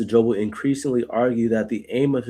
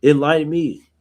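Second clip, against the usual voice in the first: mild angry plea; 3 semitones higher than usual. Retold or imitated. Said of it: "he's angry now".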